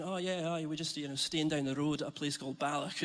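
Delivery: a light Scottish accent, lightly put on. Shown as a demonstration. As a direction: slip casually into a mild Scottish accent. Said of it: "Just talking to them like this".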